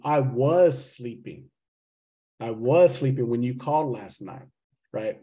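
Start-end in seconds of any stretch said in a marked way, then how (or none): 0.0-1.4 slow emphasis. Shown as a demonstration.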